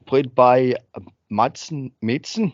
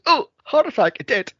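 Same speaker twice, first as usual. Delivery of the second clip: mock dying nun; 10 semitones higher, 3 dB louder than usual. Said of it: "and she goes".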